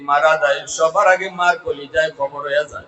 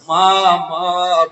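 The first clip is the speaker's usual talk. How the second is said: mildly raised cry for mother; 3 semitones higher, 7 dB louder, much slower than usual. Acted. Tormented son calling his mother from the grave, crying out. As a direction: call out loudly, a touch of anguish. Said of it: "করে চিৎকার করে কাঁদতেছে".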